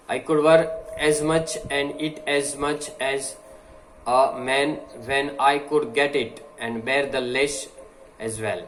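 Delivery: slow, deliberate oratory reading; slow speech reading. Acted. Teacher reading a speech to the class, slow and deliberate. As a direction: read each phrase slowly, like a speech.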